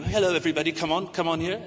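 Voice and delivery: mock British welcome, high and beckoning; Mister Bean. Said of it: "I can't do a British accent well, but I try to".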